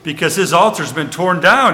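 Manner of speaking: retold challenge, pitched a little up; defiant challenge. Joash sticking up for his son to the Midianites, defiant. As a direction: throw the challenge back at them, lightly acted.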